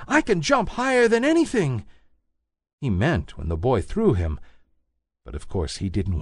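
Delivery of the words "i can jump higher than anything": high, small rabbit voice; little toy rabbit. A narrator's reading. Toy rabbit insisting to the wild rabbit, high small voice. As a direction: pipe up like a tiny toy bunny. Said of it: "said the little rabbit".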